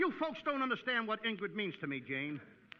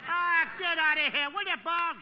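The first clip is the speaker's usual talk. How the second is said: exasperated; 7 semitones higher, 7 dB louder, slower than usual. Acted. Exasperated at caller.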